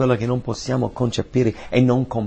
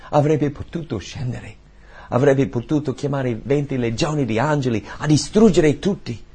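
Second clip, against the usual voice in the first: normal talking voice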